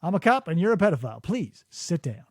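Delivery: mock a perfectly calm officer; zen cop. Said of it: "this perfectly zen cop".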